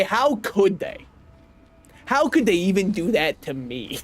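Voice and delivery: slow, hammed-up betrayal; mock outrage. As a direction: play the wronged victim. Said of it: "So I'm going to say".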